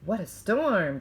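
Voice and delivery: mole muttering. Acted. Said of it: "Mole mutters".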